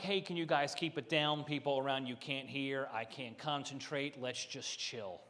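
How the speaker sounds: soft, overly polite request; mock polite. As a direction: ask them nicely, keep it low. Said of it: "So I'm very polite".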